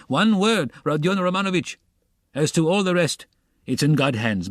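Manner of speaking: breathless after running; panting, words between breaths. A narrator's reading. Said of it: "running after him out of breath".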